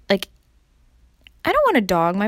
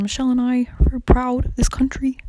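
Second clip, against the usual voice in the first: bad Obama impression; 3 semitones higher than usual. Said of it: "in a Barack Obama voice".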